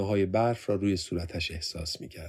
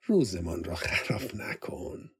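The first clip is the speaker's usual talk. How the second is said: slow, soft-spoken plea; said softly after a gentle laugh; 3 dB quieter, slower than usual. A narrator's reading. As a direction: ease him off it kindly. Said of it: "صدفان خندهٔ ملایمی کرد".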